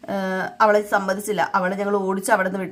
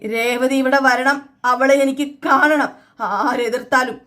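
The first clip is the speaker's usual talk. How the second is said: put-on slow, a little louder insistence from an old sick father; slow insistent raised voice, not quite shouting; 3 semitones higher, 4 dB louder, slower than usual. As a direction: drag it out stubbornly, demanding to see her. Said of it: "ഈ ഇങ്ങനെ സൗണ്ടിൽ പറഞ്ഞപ്പോഴത്തേക്കും".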